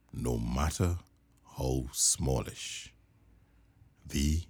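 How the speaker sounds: soft closing. A narrator's reading. Closing line of story.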